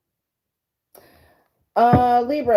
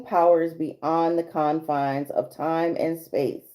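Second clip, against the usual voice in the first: card reading voice. Acted. Reads card message aloud.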